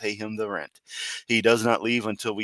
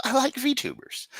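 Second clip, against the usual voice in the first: cutesy high voice. Pretend. Joking about kawaii VTuber voice.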